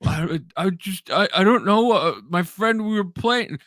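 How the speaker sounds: put-on high, halting teen excuse; imitating his younger self, guilty and high; sheepish kid. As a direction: stammer like a caught seventeen-year-old. Teen voice answering angry dad.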